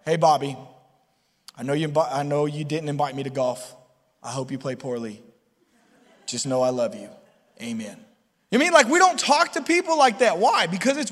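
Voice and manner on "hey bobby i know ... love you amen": lower, softer solemn prayer tone. Retold or imitated. Talking to best friend like a formal prayer. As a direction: pray at a friend. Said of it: "talking to your best friend that way".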